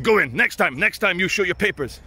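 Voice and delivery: mock guard waving someone through, Eastern European accent. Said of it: "Eastern European".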